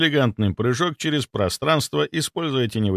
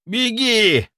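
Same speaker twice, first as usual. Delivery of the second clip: much higher, loud frantic yell; yelled at full voice; 11 semitones higher, 4 dB louder than usual. Acted. Head doctor betrays the trap, yelling a warning to Nikolai. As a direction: scream the warning with everything. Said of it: "заорал он во весь голос".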